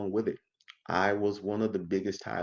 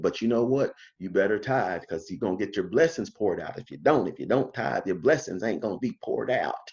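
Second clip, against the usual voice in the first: country preacher voice; 2 semitones lower than usual. Retold or imitated. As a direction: put on a folksy country preacher's voice. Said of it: "he says in that nice country voice".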